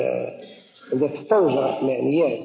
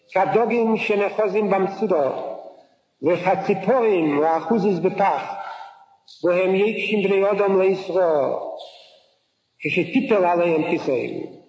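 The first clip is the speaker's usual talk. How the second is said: fast, practiced Hebrew verse reading; quick rote recital of scripture; scripture recitation; 2 semitones higher, much faster than usual. Acted. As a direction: rattle off the verse from memory.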